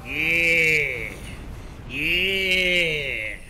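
loud, slow triumphant yells; victory yell. Real, not acted. Gamer celebrating a kill with loud yells. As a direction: let the win rip out of you.

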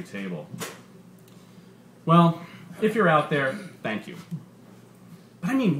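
lively, punchy comedian working the crowd; stand-up comedian. Acted. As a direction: sell the bit to a packed club. Comedian's stand-up set in story.

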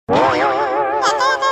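warped slow-motion ಯಾಕೆ, a comic sound gag; slowed deep voice. Acted. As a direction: stretch ಯಾಕೆ into a sluggish warped drone.

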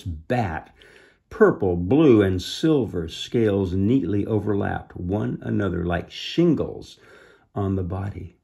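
measured storybook reading; deliberate, expressive storytelling; story narration. A narrator's reading. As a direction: read a children's adventure aloud. Reads storybook aloud.

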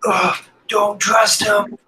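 put-on slow, high, strained old captive; old man's voice. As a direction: groan a warning as an old man. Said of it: "this old man's voice saying".

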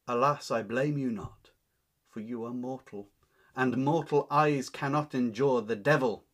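indignant Anne. Acted. Teacher reads Anne cursing Richard.

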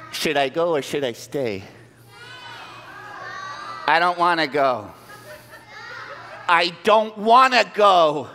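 high dithering mouse voice; waver, then give in; nervous mouse. Acted. Mouse debates going back to help the lion, high voice.

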